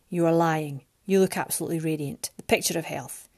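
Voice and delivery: low, blunt dismissal; abrupt. Acted. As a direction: cut her off curtly. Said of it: "he abruptly said".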